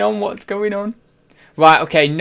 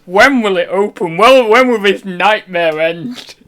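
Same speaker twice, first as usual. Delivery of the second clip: frustrated rant in a put-on, raised voice; hammed-up impression of a man wailing over closed takeaways; loud, high mock despair, dragging out the complaint; Zahir; 4 semitones higher, 5 dB louder than usual. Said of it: "all I've got is the K F C thing".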